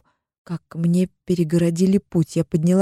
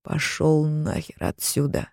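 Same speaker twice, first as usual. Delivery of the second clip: husband growls at his brother; growled; 6 dB quieter, slower than usual. Acted. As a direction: growl it as a slow threat. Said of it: "рычит супруг".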